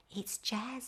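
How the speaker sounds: very quiet voice. Narrator replying after Madam Mina's loud call, in a very quiet voice. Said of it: "I say in a very quiet voice".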